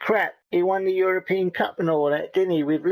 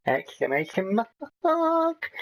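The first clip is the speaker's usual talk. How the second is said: exclamation said flat, then "mark" leaps much higher; mock excited squeak on "mark"; reading out punctuation with a sudden high "mark"; pitch jump on mark; 5 semitones higher, slower than usual. Shown as a demonstration.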